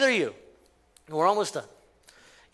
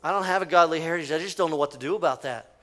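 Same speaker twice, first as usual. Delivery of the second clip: quick, quiet, mildly hopeless sigh of regret; a touch of resigned defeat, rushed and dropping off; regretful lament; 4 semitones lower, 4 dB quieter, faster than usual. Retold or imitated.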